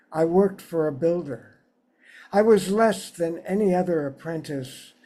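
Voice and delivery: measured poem recital, phrase by phrase with pauses; unhurried literary reading, settling at line ends; poetry reading. Acted. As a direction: read your poem aloud to an audience, lifting each new sentence. Reads own poem aloud.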